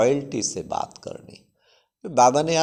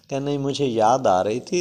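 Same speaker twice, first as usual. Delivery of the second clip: ordinary talk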